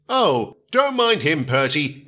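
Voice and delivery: reassuring. Acted. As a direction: soothe the new engine. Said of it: "Edward assured".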